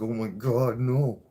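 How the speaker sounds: imitating his courtroom panic; panicked cry. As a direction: cry out in dread.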